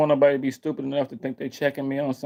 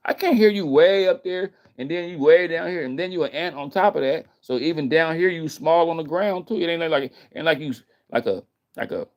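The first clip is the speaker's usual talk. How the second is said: mock eagle voice; 4 semitones higher than usual. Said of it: "the ant shouldn't be trying to talk to an eagle".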